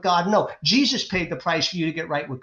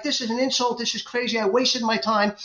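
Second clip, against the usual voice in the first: furious; 5 semitones higher than usual. Retold or imitated. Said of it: "And he's furious".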